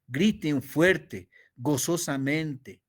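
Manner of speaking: "griten fuerte" drawn out and loud; slow emphatic. Shown as a demonstration. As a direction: stretch it out joyfully. Muestra gritar con gozo. (lento y fuerte, con gozo)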